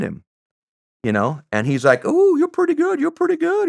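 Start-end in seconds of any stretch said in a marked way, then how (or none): 2.0-3.7 Southern clerk. Retold or imitated.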